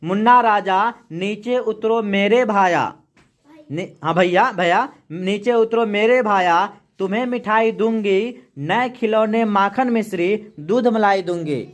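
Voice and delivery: slow, measured poem reading; poem recitation. Acted. Teacher reading a poem to the class, slow recitation. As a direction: recite the verse slowly for the class.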